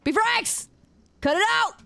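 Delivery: high-pitched, escalating mock outrage; squealed comic indignation; exasperated protest.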